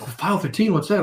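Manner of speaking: high, lightly voiced confused receptionist; puzzled gatekeeper. Gatekeeper puzzled by the salesman's slang, high mock confusion.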